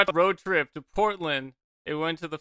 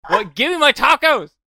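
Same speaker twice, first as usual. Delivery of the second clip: screaming much higher and louder; mock furious yell; 7 semitones higher, 13 dB louder than usual. Yelling at fast food staff over tacos, hammed-up fury. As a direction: shriek at the fools wasting time. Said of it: "I'm just like".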